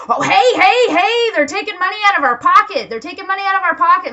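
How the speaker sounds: high, loud, fast alarmed squawk; frantic mock panic; panicking airline boss. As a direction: squeal like a greedy exec losing cash. Airline bosses panicking over boycott.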